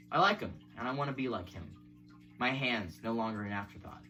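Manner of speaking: measured recital of a poem; poetry reading. Acted. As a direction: read the verse evenly, phrase by phrase. Reads a poem aloud.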